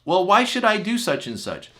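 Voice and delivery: put-on high, loud child's challenge; whiny defiant child. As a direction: talk back like a stubborn kid. Child defying parent.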